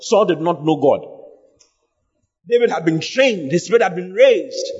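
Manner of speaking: emphatic preaching. Real, not acted. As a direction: preach it out to the congregation. Preaches with raised intensity.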